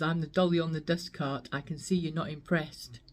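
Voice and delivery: lightly voiced poem recital; reciting Pam Ayres poem. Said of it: "I just loved the way that she says".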